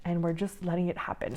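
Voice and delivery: breathless, winded speech; talking while short of breath. Real, not acted. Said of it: "Sorry, I'm out of breath".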